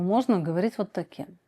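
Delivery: dropped back down to a low register. Shown as a demonstration.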